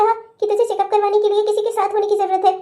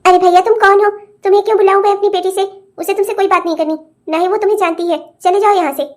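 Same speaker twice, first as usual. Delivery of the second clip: hostile dismissal. Acted. Mother-in-law turns husband away.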